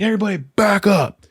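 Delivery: high, urgent retold command; commanding call. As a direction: clear the room, acting it out. Clearing room around fainted buddy.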